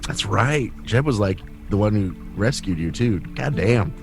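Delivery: normal talking voice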